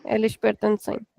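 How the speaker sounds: "Eles pertencem" said softly as a model sentence. Shown as a demonstration. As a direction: read out "Eles pertencem" gently, as the correct version. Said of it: "we don't use the são here".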